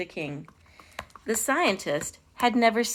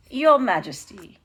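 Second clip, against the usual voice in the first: put-on louder, slow, polite French-accented address; attempted French accent; 6 dB louder than usual. A narrator's reading. Counselor to his king, polite French accent. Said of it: "my attempt at a French accent".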